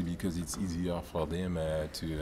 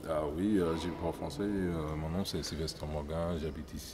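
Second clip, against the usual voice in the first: speaking French in a French accent; 4 semitones lower, 7 dB quieter than usual. Shown as a demonstration. A player asked to show his French accent. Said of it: "please show everybody your French accent".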